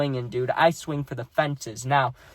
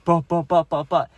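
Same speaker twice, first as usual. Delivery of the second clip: imitated thudding footsteps; 5 dB louder than usual. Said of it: "just thudding".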